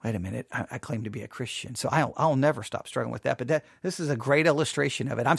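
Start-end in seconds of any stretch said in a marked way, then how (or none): 0.0-1.7 lightly voiced conscience, lower and softer; a hint of a second, hesitant self; inner voice objecting. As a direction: quietly check yourself. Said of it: "the other part going".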